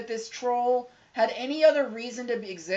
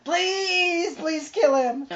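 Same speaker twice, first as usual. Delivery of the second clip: high, loud mock-desperate begging; hammed-up pleading; 9 semitones higher, 6 dB louder, much slower than usual. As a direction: wail the plea with comic desperation. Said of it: "I'm like".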